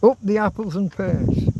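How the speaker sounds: a hammed-up Cockney catchphrase; mock Cockney. Showing off to viewers, mock Cockney accent. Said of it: "That's my best Cockney accent".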